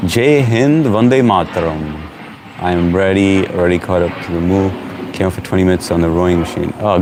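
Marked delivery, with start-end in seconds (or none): 0.1-2.0 "Jai Hind" called out higher and brighter; excited greeting. Real, not acted. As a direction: hail the viewer with pride. Greeting an Indian viewer.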